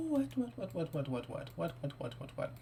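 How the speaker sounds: from high to a fading near whisper; disbelieving what, dying away; stunned what. Real, not acted. Gamer stunned by the scene, what fading to a whisper.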